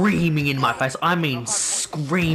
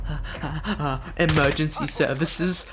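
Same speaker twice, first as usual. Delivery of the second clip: mock panicked stammer with halting breaths; stuttering, shaking; 3 dB quieter than usual. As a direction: imitate a shaken caller struggling to get words out. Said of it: "stuttering and shaking so bad".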